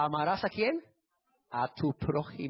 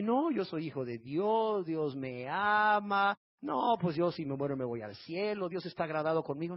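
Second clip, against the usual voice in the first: complacent sinner. Acted. People living in sin claiming God loves them, mock complacency. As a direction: mimic a sinner sure of heaven, stretching the words.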